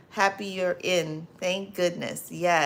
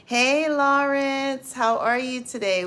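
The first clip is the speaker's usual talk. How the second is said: excited greeting; 7 semitones higher, 5 dB louder than usual. Real, not acted. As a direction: call out the name warmly and happily. Greeting a chat viewer on stream.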